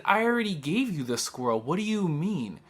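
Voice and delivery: exasperated protest. Retold or imitated. Telling the officer she already handed it over, exasperated. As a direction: push back, baffled and fed up.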